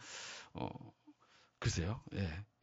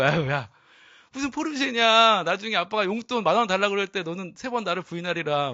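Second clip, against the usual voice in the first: put-on a dad playfully telling off his kid; mock scolding dad; 2 semitones higher, 4 dB louder than usual. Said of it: "이렇게 말할 수 있죠". (아이를 놀리듯 꾸짖는 아빠)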